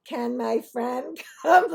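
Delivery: lightly voiced pleading child, drawn out; mock little kid. Friend asking the rabbi to bring her along, mildly childlike. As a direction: ask slowly like a small kid. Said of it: "Like, we're two years old".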